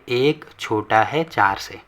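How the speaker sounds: slow, drawn-out model reading; read-aloud demonstration. Shown as a demonstration. Teacher showing students how to read the comparison, slow demonstration. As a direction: read it out slowly for learners. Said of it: "यहाँ पे ऐसे पढ़ेंगे".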